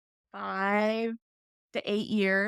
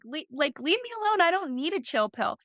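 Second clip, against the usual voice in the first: higher-pitched mock pushback; retold combative protest; 5 semitones higher than usual. Daughter retelling how she fought her dad, mildly combative. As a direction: push back like an irked kid, lightly acted. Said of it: "I'd start combating at it".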